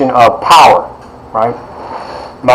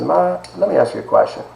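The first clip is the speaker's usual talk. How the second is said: put-on young boy asking; 7 semitones higher, 7 dB quieter than usual. Child asks grandmother.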